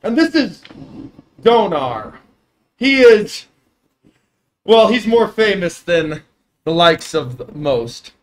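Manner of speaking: loud, high jovial giant; dopey cartoon bellow. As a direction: boom it like a cheerful giant. GM voicing giant.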